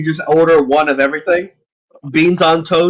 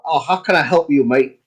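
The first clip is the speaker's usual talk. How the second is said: put-on slight British accent. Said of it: "with a slightly British accent".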